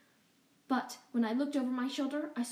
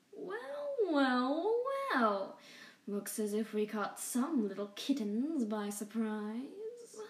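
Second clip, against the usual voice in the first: lightly voiced gloating rat villain; a hint of a sneering rodent king; sly Rat King. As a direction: purr a smug welcome as the villain. Rat King greets the cats.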